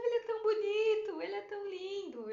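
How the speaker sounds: high, tearful swooning words; retold crying. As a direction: gush through imitated tears. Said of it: "e eu chorava".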